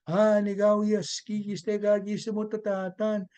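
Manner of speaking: steady, level-toned prayer recitation; storyteller voicing a solemn prayer; praying. A narrator's reading. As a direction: intone a prayer in long, even phrases. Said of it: "he began to pray".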